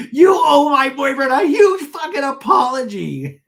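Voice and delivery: hammed-up high, tearful scream; Shannon. Shannon demanding an apology for her boyfriend, screaming. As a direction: shriek it slowly, a mock meltdown. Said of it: "She just screams and then runs off".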